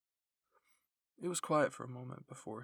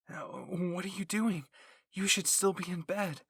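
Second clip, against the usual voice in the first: slow, louder scolding; a firm telling-off, higher and louder; 6 semitones higher, 8 dB louder, slower than usual. A narrator's reading. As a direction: tell him off for being up. Mikasa scolding Aaron out of bed.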